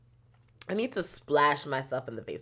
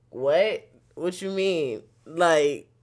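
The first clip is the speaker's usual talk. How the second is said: pleading with the driver; 3 semitones higher, 7 dB louder than usual. Retold or imitated. Friends begging the Lyft driver to just go, loud and pleading. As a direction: talk him down, loud and desperate. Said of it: "We's like".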